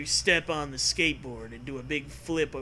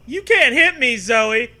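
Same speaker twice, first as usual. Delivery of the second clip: much higher, loud hammed bellow; 8 semitones higher, 12 dB louder than usual. Kid hit by Zoe, bellowing at her loud and high. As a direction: scream it out, outraged. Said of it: "you bellow".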